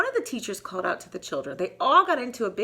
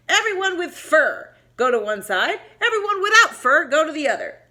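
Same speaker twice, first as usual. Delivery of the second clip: louder, commanding calls; bossy orders; 7 semitones higher, 8 dB louder than usual. Acted. Bobcat bossing the animals into sides, louder. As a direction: order them around.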